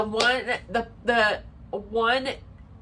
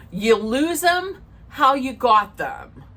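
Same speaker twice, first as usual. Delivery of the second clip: slow, higher-pitched pronouncement; sage advice; 4 semitones higher, 4 dB louder, slower than usual. Real, not acted. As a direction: deliver it slowly as a weighty lesson. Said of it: "Sage advice coming up".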